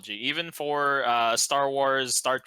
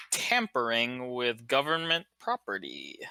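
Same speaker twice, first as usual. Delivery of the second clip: slow, drawn-out mock warning; mock-grave; 3 semitones lower, 4 dB quieter than usual. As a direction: draw it out with playful gravity. Mock-grave warning about rules.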